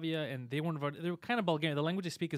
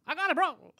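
higher, louder put-on bro voice, overconfident; mock macho bro; 9 dB louder than usual. A friend boasts before the haunted basement, mock macho bro voice. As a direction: ham up a cocky friend grabbing the computer.

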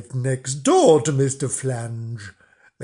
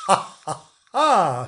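mock laugh; 5 semitones higher than usual. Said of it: "she went".

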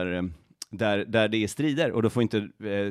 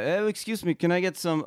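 French tone; 6 semitones higher than usual. Pretend. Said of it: "I better say this in French tone".

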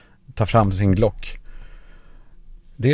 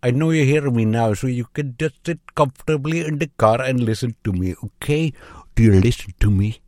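put-on menacing restaurant owner, Indian accent; 3 semitones higher than usual. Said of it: "this is Rajiv from restaurant".

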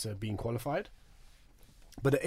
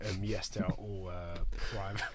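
put-on Australian accent; 5 semitones lower, 8 dB quieter than usual. Gym trainer fibbing to girls about private sessions, in Australian accent. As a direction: put on an Aussie accent, softly. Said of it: "I actually love your Australian accent".

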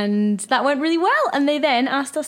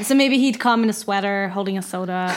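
put-on American delivery, dropping lower; American accent; 5 semitones lower than usual. Shown as a demonstration. Extending the demo sentence, attempted American accent. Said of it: "try and do an American accent".

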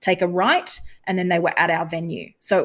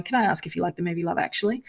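gruff; 4 dB quieter, faster than usual. Retold or imitated. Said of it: "being quite gruff".

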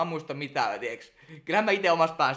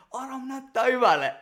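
high, louder cheer from the crowd; imitated supporters' shout, pitched up; retold shout; 8 semitones higher, 5 dB louder than usual. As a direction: call out praise to someone on stage. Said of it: "Aino ja Pauliina huusi sieltä".

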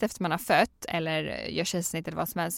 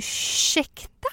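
incredulous excuse me; 9 semitones higher, much slower than usual. Retold or imitated. Shocked at husband before midwife.

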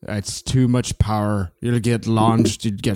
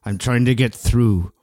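man doing a woman's voice; 3 semitones lower than usual. Acted. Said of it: "impression of your mom".

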